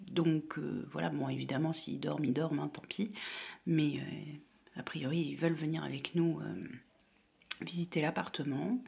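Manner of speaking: hushed whisper. Real, not acted. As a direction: keep it hushed and low. Whispering while waiting.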